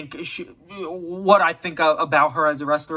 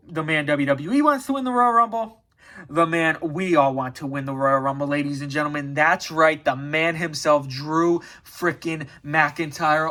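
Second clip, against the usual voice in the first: ring announcer. Acted. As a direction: introduce him like the main event. Hyping his pick like announcer.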